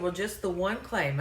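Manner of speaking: lightly imitated Arkansas caller; a touch of Arkansas accent; heavy Arkansas accent. Caller admitting one claim to the agent, Arkansas accent. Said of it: "just really heavy accent for me".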